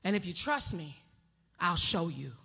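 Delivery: low, soft seductive murmur; a quiet, low coaxing tone; hushed low voice.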